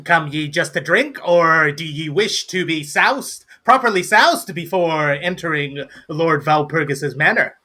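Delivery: lightly voiced old-time tavern host; a hint of theatrical salesman; showy gnome barkeep. Gnome asking a customer about getting soused, lightly showy.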